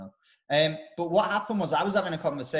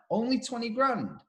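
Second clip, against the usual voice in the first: higher, disbelieving echo; incredulous mimic; 8 semitones higher than usual. Imitating a friend's disbelief at the van price. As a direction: throw the words back in mock disbelief. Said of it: "And the person went".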